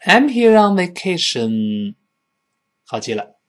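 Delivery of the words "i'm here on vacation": raised, slow model sentence; teacher's drawn-out demonstration; read out loud. Shown as a demonstration. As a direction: project it slowly for repetition. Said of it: "再来一遍".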